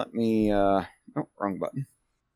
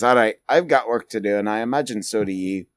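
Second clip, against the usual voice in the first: intentionally bad accent, quick; Grimnir; faster than usual. Grimnir standing up to get back to work, bad accent. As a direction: rattle it off in a terrible put-on accent. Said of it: "Grimnir's accent is terrible".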